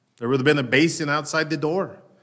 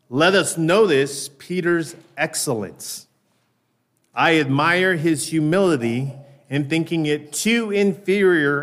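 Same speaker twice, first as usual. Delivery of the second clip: slow, measured quoted reading; reading Spurgeon. Acted. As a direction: read the old sermon with weight. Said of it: "Listen to what Spurgeon says".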